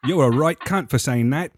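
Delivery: British slang insult, lightly delivered; casual mock-British dig; mock British accent. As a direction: put on a cheeky British accent. Joins the mock British accent bit.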